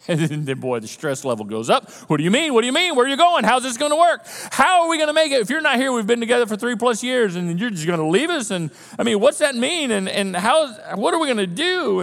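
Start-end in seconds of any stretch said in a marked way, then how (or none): 2.1-12.0 high, rapid worried questions; anxious disciples. Retold or imitated. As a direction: fire off panicked questions. Panicked disciples questioning Jesus.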